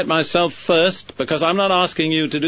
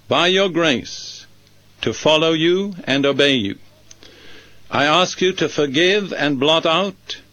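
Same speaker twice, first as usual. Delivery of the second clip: measured model prayer with short pauses; deliberate prayer for others to listen to; slow, careful prayer. Shown as a demonstration. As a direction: pray it through carefully, phrase after phrase. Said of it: "I'll say it slowly and carefully".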